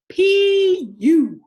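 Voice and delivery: high, loud squawk of disgust; disgusted duck. A narrator's reading. Duck complaining about the pigs' stink, squawking. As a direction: duck holding its nose at the smell. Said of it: "said the duck".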